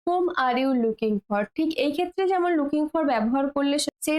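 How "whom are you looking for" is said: drawn-out clear teacher's model; slow model sentence. Shown as a demonstration. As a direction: say it slowly, word by word, for learners. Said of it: "teacher models slow English". (ধীরে ধীরে শেখানোর ভঙ্গিতে বলা)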